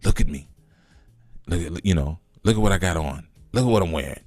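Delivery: lightly voiced pious meditator; mock devotee voice. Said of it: "Look at how I, I talk like this".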